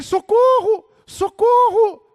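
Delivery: loud, high, drawn-out yell; acted panicked holler; desperate cry for help. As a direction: shout for rescue as if hanging from a cliff. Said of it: "desesperadamente a clamar".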